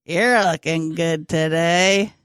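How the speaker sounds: slow ventriloquist delivery; talking with mouth closed. Shown as a demonstration. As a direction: lips barely move. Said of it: "It barely moved".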